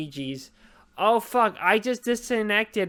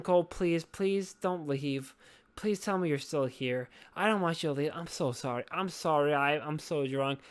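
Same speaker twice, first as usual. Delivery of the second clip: low, subdued begging; sorry, sinking voice; 4 semitones lower, 4 dB quieter than usual. Real, not acted. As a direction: plead tipsily with a friend not to go. Begs silent co-host not to leave.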